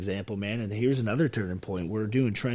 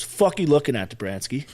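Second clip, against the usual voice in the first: retold sergeant bark; 4 semitones higher, 6 dB louder than usual. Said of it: "and he goes".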